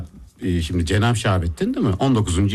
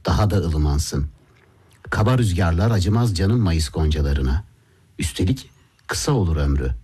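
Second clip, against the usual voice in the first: slow, measured sonnet reading; poem recital; slower than usual. Acted. Host reads a Shakespeare sonnet to colleagues, slow poetic recital. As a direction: recite it slowly, pausing between phrases.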